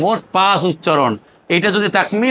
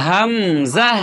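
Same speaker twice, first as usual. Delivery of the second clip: slow joined; much slower than usual. Shown as a demonstration. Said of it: "দুইটা মিলাইয়া".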